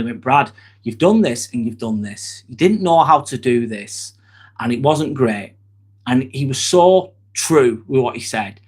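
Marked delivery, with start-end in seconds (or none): 0.2-5.5 lightly voiced calm surgeon, a touch lower; a hint of a composed surgeon giving feedback; calm and professional. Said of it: "He said it so professionally and so calmly".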